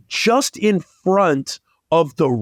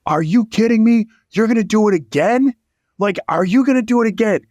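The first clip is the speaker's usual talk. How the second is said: disbelieving angry owner; 6 semitones higher, faster than usual. Retold or imitated. Owner berating the kid for doing it again, mock outrage. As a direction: imitate a man watching his car wrecked twice. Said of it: "the guy goes".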